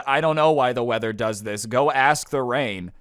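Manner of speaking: mildly sarcastic brush-off. Retold or imitated. Roommate fobbing off the angry gamer, mildly sarcastic. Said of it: "one of them sarcastically said".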